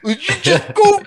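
high-pitched mock shout; hammed-up coach's scolding yell; retold coach screaming. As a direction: bawl it out like an outraged gym coach. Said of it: "he's, like, screaming at me".

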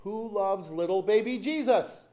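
imitating children shouting across the aisle; shouted question. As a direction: call it out like kids in a pageant. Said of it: "they would shout".

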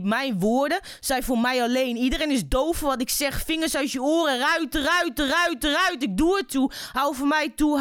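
intense slam poetry recital with a driving rhythmic refrain; spoken word performance. Acted. Poet performing her award-winning poem for the radio audience, intense recital. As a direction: recite it like a spoken word stage piece, pressing each line.

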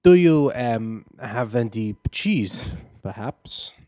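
slow, halting stab at an American accent; badly faked American, slipping toward British; careful, hesitant American accent that drifts British; attempted American accent. Shown as a demonstration. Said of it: "Can you do an American accent?".

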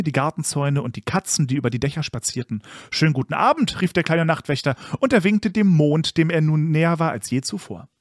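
put-on lilting read-aloud for children; animated storybook reading; story narration. A narrator's reading. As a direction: tell it like a bedtime tale, with expressive swells.

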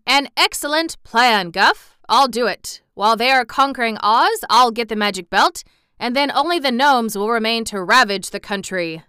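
loud, eager plotting voice; eager king. A narrator's reading. Gnome King to General Guff, loud gleeful scheming. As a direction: pitch it up, scheming and pleased. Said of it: "cried the king".

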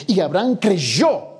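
reads the verse slowly and evenly; slow scripture reading. Shown as a demonstration. Preacher reading Genesis to the congregation, slow and measured. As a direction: lay the verse down word by word. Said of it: "versículo seis dice".

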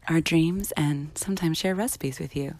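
mock ASMR whisper; playful whispered sign-off. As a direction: whisper it close and gentle. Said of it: "Welcome to A S M R".

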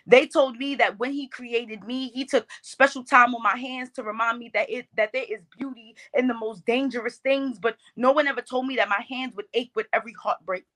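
rhythmic spoken-word delivery; lifted, cadenced poetry voice; poem recitation. Shown as a demonstration. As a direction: perform it as verse to an audience. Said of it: "that poem that you're referencing".

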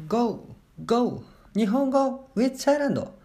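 high, bright call to open the show; energetic podcast intro cheer; excited show opener. Acted. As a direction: shout the show title like a cheer.

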